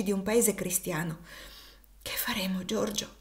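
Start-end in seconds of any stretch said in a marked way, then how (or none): 2.0-3.1 barely voiced, near whisper; a faint, breathless whisper of fear; faint half-voice. A narrator's reading. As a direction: ask it with almost no voice left. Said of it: "con voce semispenta".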